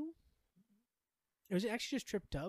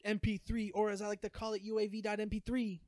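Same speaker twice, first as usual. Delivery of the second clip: podcast intro; 2 semitones higher, 4 dB louder than usual. Shown as a demonstration. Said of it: "I'd love an opening".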